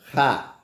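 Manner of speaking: "Rá" with initial strong h-like Brazilian R; sound of RR. Shown as a demonstration. Teacher showing the RR digraph, "Rá" sounded out alone. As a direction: sound out "Rá" as one isolated syllable. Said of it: "fazendo o som".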